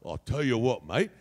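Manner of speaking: broad Australian mate voice; Australian accent. Shown as a demonstration. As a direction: spin a yarn like an Aussie bloke. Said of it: "add an accent".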